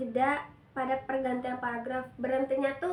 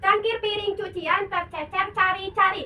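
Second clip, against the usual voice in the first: loud, high, crisp syllables; articulation drill; 7 semitones higher, 8 dB louder than usual. Shown as a demonstration. Teacher leading a tongue-twister warm-up, loud high chant. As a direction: spell out every sound to the class.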